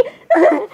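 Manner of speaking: short, high-pitched burst of laughter. Acted. Speaker asked if they are okay, high laugh. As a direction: break into a quick high laugh.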